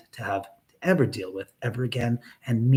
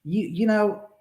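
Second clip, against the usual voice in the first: angry rant; 3 semitones higher, 6 dB louder than usual. Real, not acted. Angry rant at chat troll.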